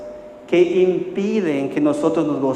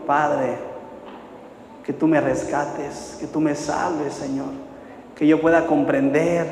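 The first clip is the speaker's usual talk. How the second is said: prayer. Real, not acted. Pastor leading church in confession and thanks, praying. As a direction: lead the congregation in earnest prayer. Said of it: "Vamos a orar".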